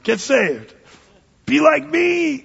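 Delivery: Paul urging Agrippa with mock zeal; mock eager plea. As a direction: beg them playfully. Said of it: "Paul's standing there in chains saying".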